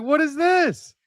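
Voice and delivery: high, incredulous squeal, breaking into a laugh; high-pitched what-is-this disbelief; stunned disbelief. Retold or imitated. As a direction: act floored, then laugh and slow right down. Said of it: "And I'm like".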